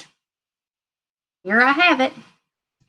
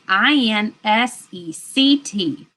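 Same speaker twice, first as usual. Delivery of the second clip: letters spelled out slowly; slow spelling; slower than usual. Shown as a demonstration. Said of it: "All right".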